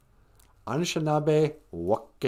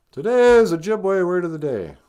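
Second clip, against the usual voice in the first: a hushed announcer whisper; whispered word-of-the-day intro; 5 semitones higher, 5 dB louder than usual. Pretend. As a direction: breathe it like a secret.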